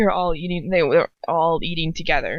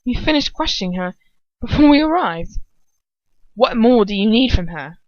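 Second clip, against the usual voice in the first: stiff; 3 semitones higher, 4 dB louder than usual. Acted. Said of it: "her voice a little stiff".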